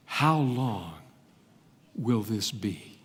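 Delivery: low, soft, slow asking; hushed question. Acted. The Holy One asking in the vision, hushed. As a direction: murmur the question gently. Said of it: "the Holy One asks".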